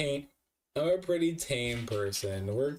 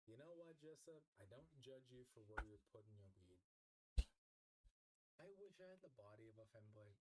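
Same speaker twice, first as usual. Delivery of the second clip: played-back clip; 25 dB quieter, much faster than usual. Real, not acted.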